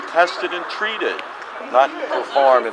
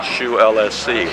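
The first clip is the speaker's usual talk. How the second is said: letters said one by one; spelling it out; 3 semitones lower than usual. Shown as a demonstration. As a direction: spell it again clearly. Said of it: "could you say your name again".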